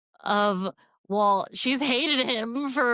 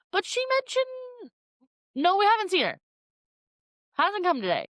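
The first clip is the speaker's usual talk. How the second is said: put-on gossipy old ladies; 9 semitones higher than usual.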